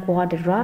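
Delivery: WARDROBE with the a said as "o". Shown as a demonstration. Teacher modelling the vowel, "wardrobe" with a said as o. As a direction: say "wardrobe" with an o sound in the first syllable. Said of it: "Cái chữ A này phát âm là o".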